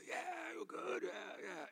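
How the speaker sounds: high, breezy dismissive agreement; mock casual yeah. Congregation shrugging along, breezy mock yeah. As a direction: brush it off lightly, mocking. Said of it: "everybody's like".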